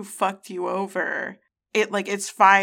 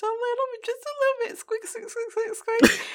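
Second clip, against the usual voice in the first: high, tiny squeaky voice; mouse squeak; much faster than usual. Pretend. Mocking a character sneaking in like a mouse, high squeaks.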